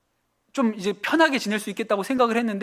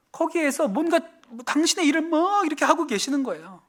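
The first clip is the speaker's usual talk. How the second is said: rising preaching fervour; 8 semitones higher than usual. Acted. Preacher proclaims God's new work.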